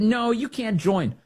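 slow, high mocking "No, you can't join."; mock refusal. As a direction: drag out the refusal like a smug gatekeeper. Mocking Caucus reply.

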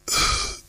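breathing for stethoscope. Shown as a demonstration. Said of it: "Breathe out just that last bit".

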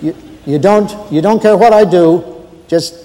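hesitant, stammering night watchman; lightly voiced, deferential rookie guard; nervous new guard. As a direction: stumble politely through an awkward report to the boss. Plays a new guard phoning his boss.

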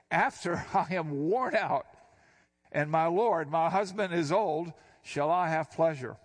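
reads Sarah's words through a real laugh, slightly slowed. Acted. Preacher voicing Sarah laughing to herself, amused disbelief. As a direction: let the laugh break into her old-woman disbelief.

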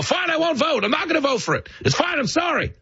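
very high, mock-meek surrender; worn-down voter. Average voter giving in to the Democrats, very high meek voice. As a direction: give in like a cowed tourist. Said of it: "They go".

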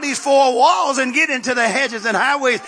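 rousing church exhortation; rally the congregation to action; fervent preaching. Real, not acted. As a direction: preach it with rising urgency, driving through the phrases.

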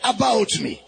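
shouted declaration for the crowd to echo; loud call-and-response declaration. Shown as a demonstration. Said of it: "Say with me very loud".

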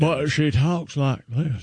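Southern accent. Shown as a demonstration. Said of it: "I don't know why I'm using a Southern accent".

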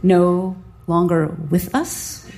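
slow, stunned disbelief. Retold or imitated. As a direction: repeat it slowly in shock.

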